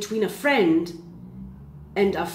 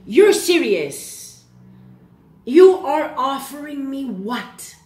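higher and louder, incredulous disbelief; 4 semitones higher, 4 dB louder, slower than usual. Retold or imitated. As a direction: act stunned by a tiny offer, half mocking. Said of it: "You're like".

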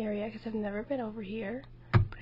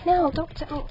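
protest; 5 semitones higher, 8 dB louder than usual. Real, not acted. Protesting being set on fire.

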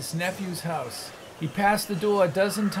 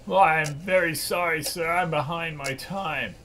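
timid clerk. Acted. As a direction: apologise nervously to the boss. Late clerk apologising to boss.

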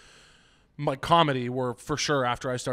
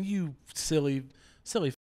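sweet; 4 dB quieter than usual. Acted.

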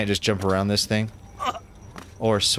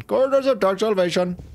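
higher, grand title reading; dramatic announcer; 9 semitones higher than usual. Shown as a demonstration. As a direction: announce it like a movie trailer.

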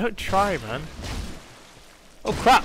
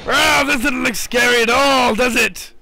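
higher, louder mock calm; sarcastic; 5 semitones higher, 5 dB louder than usual. Real, not acted. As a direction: say it dryly ironic. Sarcasm about scary room.

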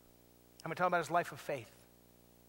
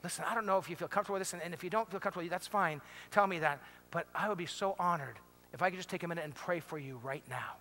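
gentle offer; 3 semitones lower, 4 dB quieter than usual. Shown as a demonstration. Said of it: "will you look at them and say".

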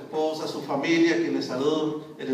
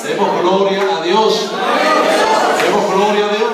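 preaching call; 10 dB louder than usual. Real, not acted. Preacher calls congregation to praise.

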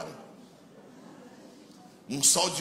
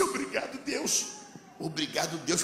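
joyful thanks; 3 dB quieter than usual. Retold or imitated. Overjoyed thanks to God.

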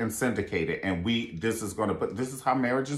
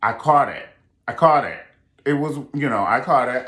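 insistent; 2 semitones higher, 7 dB louder than usual. Real, not acted. Calling out the cameraman.

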